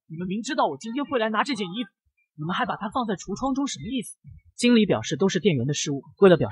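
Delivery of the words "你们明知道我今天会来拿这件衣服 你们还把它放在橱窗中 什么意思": angry demand. A narrator's reading. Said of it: "心机婊生气地质问".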